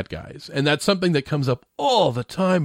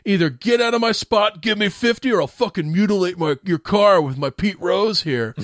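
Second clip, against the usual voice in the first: pitched-up prank-call tough guy; Jerky Boys thug; 5 semitones higher than usual. Retold or imitated. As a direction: bark it like a mouthy Jerky Boys caller. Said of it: "He sounds like one of the Jerky Boys".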